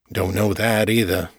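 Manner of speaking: lightly voiced older man drawling; drawled. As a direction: stretch the words out, unhurried. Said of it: "the man drawled".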